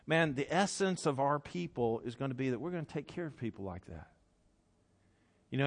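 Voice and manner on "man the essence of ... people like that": softer aside, a mild mock whisper; a confiding half-whisper, not a real one; retold whisper. Jesus confiding to James and John, softly. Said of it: "he whispers over to James and John".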